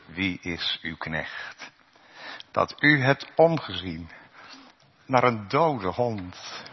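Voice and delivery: a hint of a lowly guest, slow; humble Mephibosheth. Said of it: "En wat zegt Mephibozet dan?".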